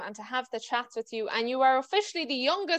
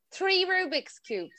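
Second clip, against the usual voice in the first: surprised; 6 semitones higher, slower than usual. Real, not acted. Amazed host questions the claim.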